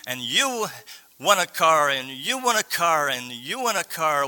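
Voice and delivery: a touch of talk-show prize announcing; Oprah Winfrey. Retold or imitated. Host handing out cars to her audience, lightly imitated. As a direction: lightly imitate a giveaway host, each YOU swooping up and falling. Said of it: "and then she would say".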